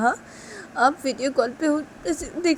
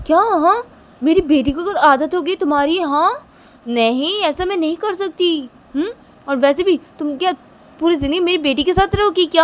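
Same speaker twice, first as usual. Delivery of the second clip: scolding boss; 5 semitones higher, 5 dB louder than usual. Pretend. Boss scolds the pleading maid.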